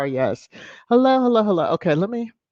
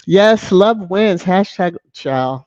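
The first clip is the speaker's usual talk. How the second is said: loud, slow declaration; emphatic proclamation; 2 semitones higher, 8 dB louder, slower than usual. Real, not acted. Host cheering a viewer's comment with a loud slow declaration.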